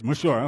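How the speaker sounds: "Messiah" attempted as the original Hebrew word; attempted Hebrew pronunciation. Shown as a demonstration. Preacher admits he can't say Hebrew, rough Hebrew attempt at "Messiah". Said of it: "I can't say Hebrew words".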